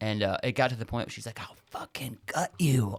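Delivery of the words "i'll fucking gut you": slow, raspy voice with words drawn out. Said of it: "she's got that deep, raspy voice".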